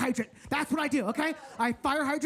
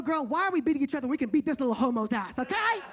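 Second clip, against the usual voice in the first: put-on sassy girl voice; 3 semitones higher than usual. Fighting girls voiced, sassy.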